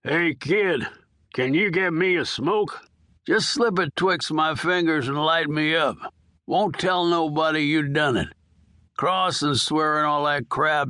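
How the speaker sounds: lightly voiced old prisoner begging; dying old convict. Old inmate coaxing the nurse for a smoke, lightly voiced. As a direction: wheedle like a hard old con, only a hint of a character voice. Earl begs the nurse for cigarette.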